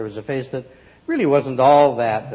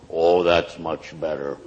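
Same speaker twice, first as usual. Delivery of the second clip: put-on lower, darker girl voice; voice dropped; 7 semitones lower than usual. A narrator's reading. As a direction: let the voice sink with the sad face. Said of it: "Even her voice dropped".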